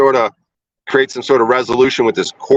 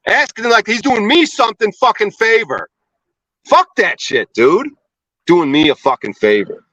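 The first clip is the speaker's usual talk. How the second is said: angry rant; 3 semitones higher than usual. Real, not acted. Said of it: "but I was yelling".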